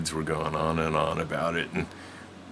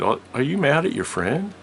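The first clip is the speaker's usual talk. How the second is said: guardian voice; 10 semitones higher, 5 dB louder than usual. Retold or imitated.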